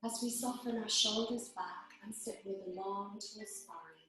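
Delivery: measured phrases with long, calm pauses; guided meditation. Acted. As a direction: gently guide them into their breath, unhurried. Leads a breathing meditation.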